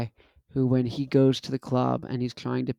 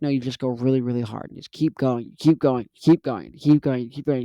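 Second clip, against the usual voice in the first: rising push, louder on each keep going; urging yourself on; 4 dB louder than usual. Retold or imitated. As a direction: hype yourself up through the set. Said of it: "It's like".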